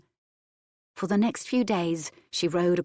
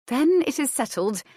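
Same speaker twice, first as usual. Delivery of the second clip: cheerful; 7 semitones higher, 3 dB louder than usual. A narrator's reading. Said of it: "Adair told them cheerfully".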